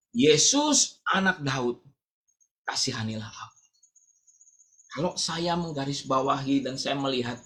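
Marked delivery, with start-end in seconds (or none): 0.1-3.6 imitated cry. Preacher acts out blind Bartimeus calling to Jesus, imitated cry. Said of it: "Dia berteriak amat sangat kuat".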